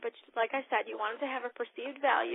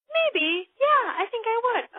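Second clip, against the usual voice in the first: guest voice; 11 semitones higher, 9 dB louder than usual. Retold or imitated. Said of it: "She says".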